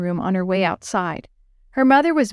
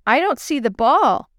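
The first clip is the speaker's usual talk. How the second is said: calling out; 5 semitones higher than usual. Acted. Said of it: "Yo-Yo called".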